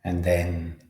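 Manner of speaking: unhurried meditation guide, long pauses; measured, spacious mindfulness instruction; guided meditation. Acted. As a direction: lead a body scan calmly, leaving space between phrases. Leads a body-scan meditation.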